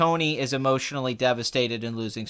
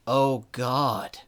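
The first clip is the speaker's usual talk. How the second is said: Captain America; 4 semitones lower, 4 dB quieter than usual. Retold or imitated. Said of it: "something about the delivery of it".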